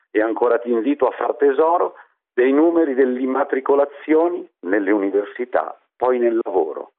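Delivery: theatrical swelling poetry reading. Acted. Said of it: "oggi vorrei esprimermi in endecasillabi".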